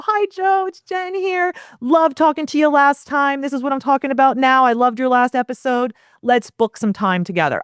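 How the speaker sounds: bright, high, friendly pitch for a video email; upbeat video greeting. Shown as a demonstration. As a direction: sell it like a cheery hello on camera. Demo video message to Joe.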